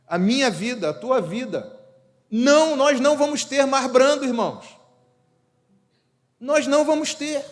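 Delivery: high, loud fervent preaching; loud impassioned preacher; preaching at full force. Acted. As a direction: drive it home to the congregation. Preaching climax.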